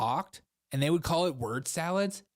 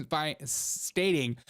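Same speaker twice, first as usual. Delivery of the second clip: slow redo; much slower than usual. Shown as a demonstration. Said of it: "laughs, redo".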